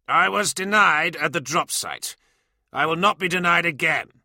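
loud, high, seething refusal; cold fury. Acted. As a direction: refuse through clenched anger. Dellarax furious at being overruled.

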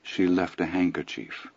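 dropped softly, almost offhand; quiet afterthought. Acted. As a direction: toss it off as an afterthought. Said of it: "Almost as an afterthought".

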